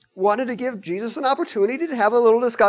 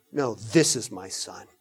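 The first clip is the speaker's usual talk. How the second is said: God the Father; 10 semitones lower, 6 dB quieter than usual. Acted.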